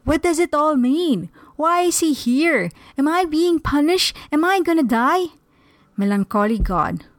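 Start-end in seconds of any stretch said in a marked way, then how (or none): 0.0-5.3 mild cry to heaven. Acted. Richard questions the heavens about God's arrival, mildly crying out. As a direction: appeal upward in a raised pitch, understated shout. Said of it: "you don't have to shout towards the sky".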